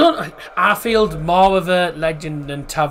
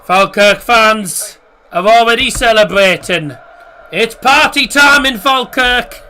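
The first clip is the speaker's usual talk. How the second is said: excited cheer; 4 semitones higher, 6 dB louder, slower than usual. Real, not acted. Cheering title about to be won.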